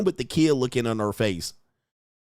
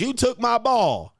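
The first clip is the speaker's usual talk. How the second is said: higher, whiny mock of the entitled woman; 10 semitones higher, slower than usual. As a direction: play her as a petty accuser, pitched up. Acted quarrel over the ball.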